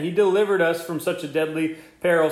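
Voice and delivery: "delivered" lifted and leaned on; emphatic reread. Shown as a demonstration. Preacher rereading verse ten to stir hope, emphatic. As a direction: read it as a triumph. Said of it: "Just read it again".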